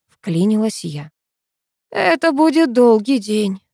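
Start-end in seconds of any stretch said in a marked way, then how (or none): 1.9-3.6 mock sympathy. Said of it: "с притворным сочувствием".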